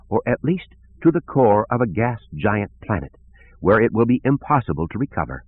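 a gentle, musical plea; melodious voice. Acted. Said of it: "in her melodious voice".

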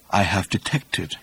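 slow, hushed and portentous. A narrator's reading. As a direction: drop the voice, confide it slowly. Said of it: "lowered his voice to a whisper".

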